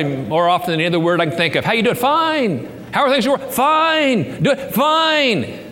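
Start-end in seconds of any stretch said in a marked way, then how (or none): 1.6-5.6 hammed-up pretend small talk at church; mock cheerful fine. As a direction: play the churchgoer who always says fine. Mock small talk, canned answers.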